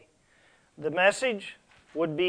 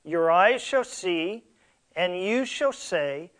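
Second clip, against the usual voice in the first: scripture reading; 3 dB louder than usual. Acted. Reads scripture aloud from Malachi.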